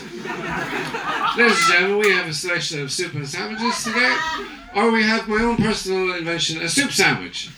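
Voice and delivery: loose, laughing cabin announcement; a tipsy captain rambling to passengers; lightly voiced drunk pilot.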